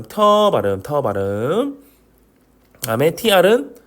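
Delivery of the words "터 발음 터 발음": 터 with a puff of air on the t; drawn-out 터 with aspirated onset. Shown as a demonstration. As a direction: say 터 like an English T. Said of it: "알파벳 T 발음".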